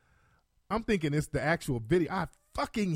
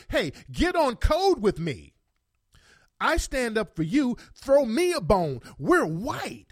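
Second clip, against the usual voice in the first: lightly mocked appeal, pitched higher; imitating the woman; 5 semitones higher, slower than usual. Woman appealing to a white officer for solidarity, mock plea. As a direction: put her plea on in a higher voice. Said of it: "So she's trying to say".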